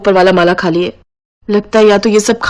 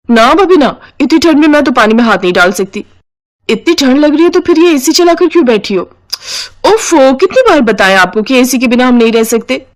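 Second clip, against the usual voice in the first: sister-in-law refusing to help with dishes; whiny sister-in-law; 4 semitones higher than usual. Acted. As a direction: whine your way out of the chores.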